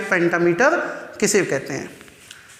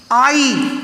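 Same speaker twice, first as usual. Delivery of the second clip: "आई" hit as a strong beat; stressed syllable. Shown as a demonstration. Teacher showing students a strong sound, "आई" stressed. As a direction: put full natural stress on "आई". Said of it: "stress लग रहा है इसमें".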